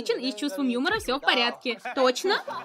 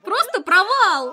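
loud slow wail; 7 semitones higher, 8 dB louder, slower than usual. Real, not acted. Wails after failed rap.

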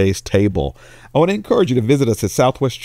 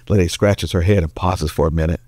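ordinary talk, nothing marked

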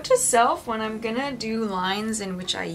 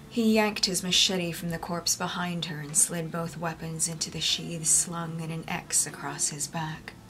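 story narration. A narrator's reading. Reads audiobook narration.

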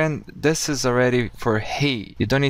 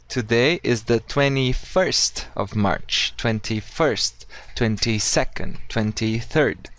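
slow model answer; slower than usual. Shown as a demonstration. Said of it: "how do you say?".

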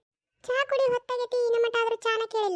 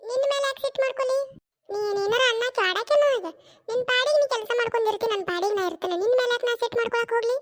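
mother-in-law voice; 2 semitones higher than usual. Acted. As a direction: play the irritated old mother-in-law snapping back. One performer voices mother-in-law. (ಸಿಡುಕಿನ ಅತ್ತೆಯ ಧ್ವನಿ)

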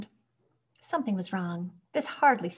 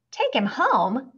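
slow, loud, raised question; incredulous echo; 6 semitones higher, 7 dB louder, slower than usual. A narrator's reading. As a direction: repeat it in disbelief, drawn out. Clerk objects to taking patient home.

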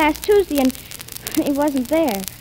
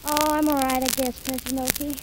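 soft, low and dejected; downcast; 5 semitones lower, 11 dB quieter, faster than usual. Acted. Heartbroken Judy telling the president she's fine, softly and dejected. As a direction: sigh it out, feeling sorry for herself. Heartbroken girl answering listlessly.

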